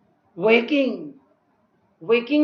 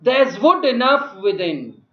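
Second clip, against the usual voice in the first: Caliban; 5 dB louder than usual. Acted. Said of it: "Caliban within means he's off stage".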